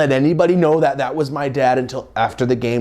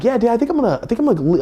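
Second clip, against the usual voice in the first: nervous hesitation; 12 semitones higher, much faster than usual. Retold or imitated. Nervous telling dad.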